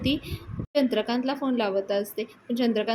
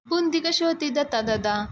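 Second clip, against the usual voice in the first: higher-pitched needling question, lightly acted; mild retold anger; 5 semitones higher, 3 dB louder than usual. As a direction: put a touch of annoyance into a raised voice. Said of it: "Sulakshana खूप रागात असते".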